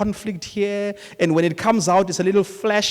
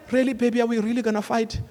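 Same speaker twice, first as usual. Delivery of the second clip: gentle plea; 4 semitones higher, faster than usual. Retold or imitated. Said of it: "Sometimes I was like".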